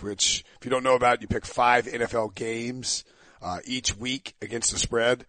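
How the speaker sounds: hoarse, lost voice; talking through a shot voice; raspy whisper. Real, not acted. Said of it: "I have no voice".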